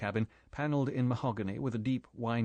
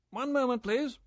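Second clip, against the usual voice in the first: calling down; 14 semitones higher, 4 dB louder than usual. A narrator's reading. Same man calling from deck.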